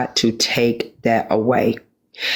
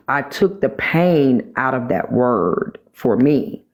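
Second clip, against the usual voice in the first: ordinary delivery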